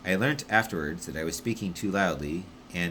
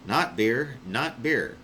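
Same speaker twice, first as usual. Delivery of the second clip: insistent correction; 5 semitones higher, 4 dB louder, much slower than usual. Acted.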